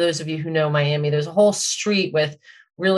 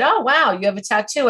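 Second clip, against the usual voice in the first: mock surprise; 5 semitones higher, faster than usual. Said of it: "and said".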